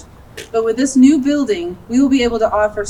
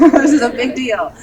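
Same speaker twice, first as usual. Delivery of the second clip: emotional laugh; 3 dB louder than usual. Real, not acted. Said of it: "I'm sorry if I get emotional".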